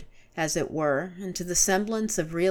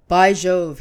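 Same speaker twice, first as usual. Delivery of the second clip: loud burst of surprise; startled exclamation; 10 dB louder than usual. A narrator's reading. Gibran realising the drug wears off, crying out loud. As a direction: blurt it out in alarm. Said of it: "he cried".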